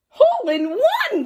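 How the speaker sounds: high, loud triumphant shout; triumphant cry. Acted. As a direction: celebrate the shot. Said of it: "cried Froggy".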